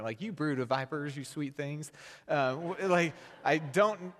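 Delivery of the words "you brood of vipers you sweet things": put-on thick Southern accent. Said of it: "the thickest Southern accents".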